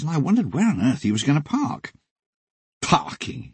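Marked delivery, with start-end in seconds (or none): 2.8-3.5 scoffing, breathy dismissal; contemptuous. Retold or imitated. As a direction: sneer the word parking away. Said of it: "he said contemptuously".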